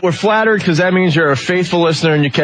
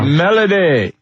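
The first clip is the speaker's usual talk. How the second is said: higher, drawn-out name call; 3 semitones higher, slower than usual. Real, not acted. Host calling Melody on the phone line, calling out. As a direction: call out for someone who isn't answering.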